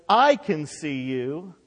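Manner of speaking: slow divine assurance, stress on "I"; God speaking. Retold or imitated. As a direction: speak slowly as God, leaning on "I". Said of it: "God says".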